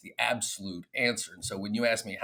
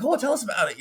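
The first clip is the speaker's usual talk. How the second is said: mock host; 12 semitones higher, faster than usual. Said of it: "they're like".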